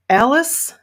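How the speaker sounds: clenched teeth. A narrator's reading. Sue confronts her neighbor Alice, teeth clenched. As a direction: say the name through clenched teeth. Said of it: "I say with clenched teeth".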